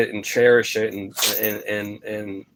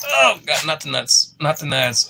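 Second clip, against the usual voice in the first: sudden high yelp of alarm; high, startled "not the nuts"; startled protest; 5 semitones higher than usual. Real, not acted. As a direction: pull away squealing at the dog. Dog goes for her crotch.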